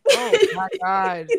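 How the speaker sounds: very high, slow exclaim; real exasperation; exasperated. Real, not acted. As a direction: groan in mock despair. Friend asks question.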